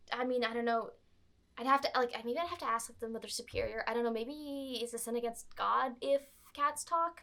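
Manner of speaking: lightly voiced Valley Girl nun; Valley Girl friar. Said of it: "he's like".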